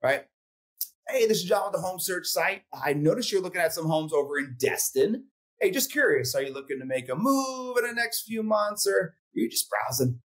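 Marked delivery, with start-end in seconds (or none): 1.1-10.2 relaxed sales call. Shown as a demonstration. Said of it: "So it sounds something like this".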